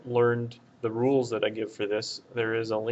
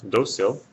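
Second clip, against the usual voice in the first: Dócil hit louder on DÓ; stress on first syllable; 5 dB louder than usual. Shown as a demonstration. Teacher explaining the accent over the O, Dócil stressed on DÓ. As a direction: punch the DÓ in Dócil. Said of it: "the stress is right here on this syllable".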